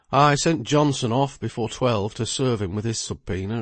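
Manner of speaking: lightly voiced lawyer, a little worried; lawyer Bridgenorth.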